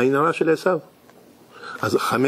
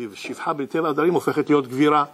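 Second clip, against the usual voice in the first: ordinary talk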